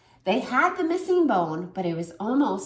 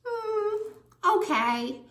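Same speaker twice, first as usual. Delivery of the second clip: meh rating; 11 semitones higher, slower than usual. Shown as a demonstration. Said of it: "one star means".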